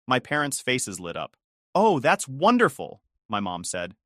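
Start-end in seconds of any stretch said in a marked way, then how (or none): 1.7-3.0 higher, louder, slow gushing delight; delighted mom. A narrator's reading. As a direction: gush with drawn-out, motherly delight. Delighted mom hears house news.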